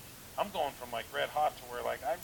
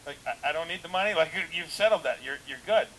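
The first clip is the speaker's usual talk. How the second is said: protesting to the Lord; 3 semitones higher, 8 dB louder than usual. Retold or imitated. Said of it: "arguing back with the Lord".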